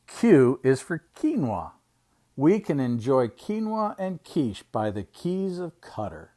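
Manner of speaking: measured picture-book reading; reading to children. Acted. Uncle reading an alphabet book to children, storytime reading. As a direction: read it out slowly for little listeners.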